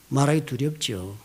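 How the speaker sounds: slow emphatic take. Shown as a demonstration. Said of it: "repeated phrase, slower first take".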